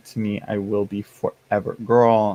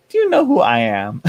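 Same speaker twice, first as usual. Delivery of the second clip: diva indignation; 6 dB louder than usual. Retold or imitated. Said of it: "I'm like".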